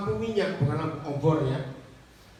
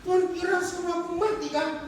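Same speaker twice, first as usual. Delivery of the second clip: high, indignant accusation; high, mock-angry outburst; angry retort; 12 semitones higher than usual. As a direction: snap back at God, upset. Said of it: "Wah, dia marah lagi".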